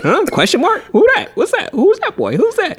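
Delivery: high-pitched nosy questioning; mock puzzlement. People spotting an extra kid in the family, mock puzzlement. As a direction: pepper them with squeaky, baffled questions.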